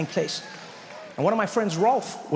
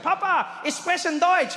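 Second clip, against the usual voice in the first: much higher, eager announcement; proud German line; 13 semitones higher, slower than usual. Retold or imitated. Son trying his German on his dad, high and eager. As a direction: blurt it out proudly to Papa.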